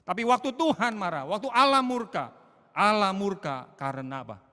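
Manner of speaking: loud, high, forceful preaching; preacher booming about divine anger; thundering sermon. Acted. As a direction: proclaim God's wrath with full force. Preaching on God's wrath.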